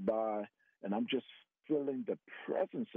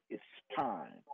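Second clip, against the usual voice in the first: low, soft solemn voice; a quiet voice from beyond, lower and softer; hushed, solemn divine voice; the audible voice; 5 semitones lower, 4 dB quieter than usual. Retold or imitated. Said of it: "all that voice said".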